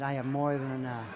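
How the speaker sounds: firmer, fuller declaration; like you mean it. Shown as a demonstration. Preacher coaching congregation to repeat it, with conviction. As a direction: state it with conviction. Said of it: "Say it like you mean it".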